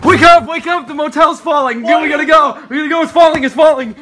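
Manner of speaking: urgent. Pretend. Fake alarm prank, yelling.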